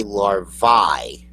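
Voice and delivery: "larvae" as "lar-vai"; wrong larvae. Retold or imitated. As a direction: rhyme the end of LARVAE with eye. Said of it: "this is a little bit wrong".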